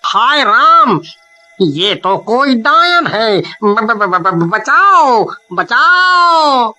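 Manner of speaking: stammering cry for help; panic, stretching the cries out; terrified. Acted. Man meets ghostly serpent woman. (डर से हकलाते हुए)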